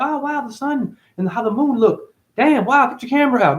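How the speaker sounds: mock excited tourist. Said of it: "You're like".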